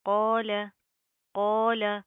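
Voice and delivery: क़ाल with a thick, heavy alif; heavy qaaf. Shown as a demonstration. Teacher shows the thick alif after qaaf, loudly. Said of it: "अलिफ भी proper मोटा होगा".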